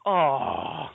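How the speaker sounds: imitated crowd groan; mock sigh of disappointment; collective sigh. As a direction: let out a falling "oh" like a let-down audience. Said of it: "A collective sigh of".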